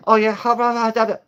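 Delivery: high, loud mocking gibberish accent; mock Asian accent. White guy at the Chinese spot, loud mock accent. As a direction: squeal out fake accented babble. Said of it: "come out saying".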